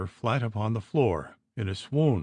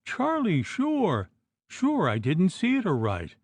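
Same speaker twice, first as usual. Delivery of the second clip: anguished plea; 7 semitones higher than usual. A narrator's reading. Wife pleading with husband's ghost.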